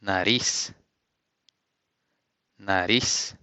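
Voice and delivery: nariz as na-REES with a tapped r; Portuguese nariz. Shown as a demonstration. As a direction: model word nariz, rising. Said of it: "you say".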